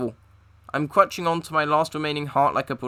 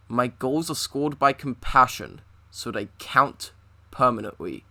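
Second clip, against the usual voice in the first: theatrical villain monologue; 3 semitones lower than usual. Acted. Addresses nemesis dramatically.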